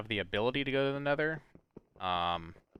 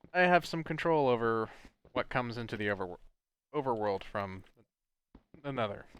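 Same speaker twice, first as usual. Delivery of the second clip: hiccuping. Real, not acted. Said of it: "Sorry, I keep hiccuping".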